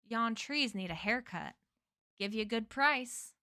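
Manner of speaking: lightly put-on Florida drawl; a touch of Florida yard man. Stranger changing accents to a yard man, light Florida drawl. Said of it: "he said in a deep Florida drawl".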